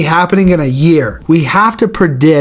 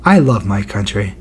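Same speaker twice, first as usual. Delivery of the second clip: imitating Wonderboy; 6 semitones lower, 3 dB quieter than usual. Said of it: "Wonder Boy would be like".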